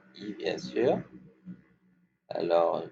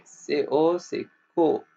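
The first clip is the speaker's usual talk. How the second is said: higher and louder; emphatic teacher; 6 semitones higher, 5 dB louder than usual. Shown as a demonstration. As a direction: ring out the co for the class. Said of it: "Le T à la fin, on le prononce pas".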